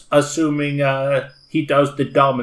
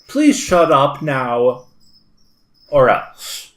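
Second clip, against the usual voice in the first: threatening warning; 4 dB louder, slower than usual. Acted. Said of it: "give the probably futile".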